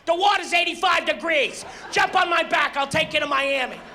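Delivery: mock panicked passenger shouting; panicky idiot. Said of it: "One guy's running around".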